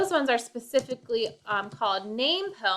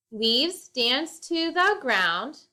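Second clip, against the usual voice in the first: poem reading; slower than usual. Shown as a demonstration. Reading a haiku aloud.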